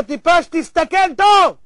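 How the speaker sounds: high, loud, slow scolding; exasperated rebuke. Acted. Townsfolk to the foolish tourist, exasperated shout. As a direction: shout it slowly, every word driven in.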